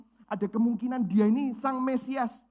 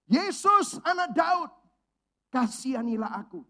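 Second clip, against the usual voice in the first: much higher and louder, a desperate plea; beggar's cry; 5 semitones higher, 6 dB louder than usual. Acted. Blind beggar calling out to Jesus over the crowd, desperate loud cry. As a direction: cry out to Jesus as if your life depends on it. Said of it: "teriak dengan segenap tenaga".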